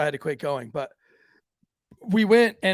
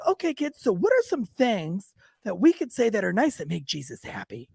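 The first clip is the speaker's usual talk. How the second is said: lightly mocking, higher-pitched kids' teacher; children's church teacher; 3 semitones higher than usual. Teacher asking the kids at church, lightly mocked singsong. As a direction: lilt it as if coaxing small children. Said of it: "brings all the kids up there".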